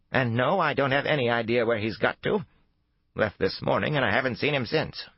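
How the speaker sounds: put-on high, worked-up old woman. A narrator's reading. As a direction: complain like a rattled old lady. Old woman character voiced.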